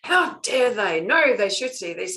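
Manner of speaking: imitating someone angrily decreeing; indignant outburst. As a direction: snap out the indignation. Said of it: "It's like".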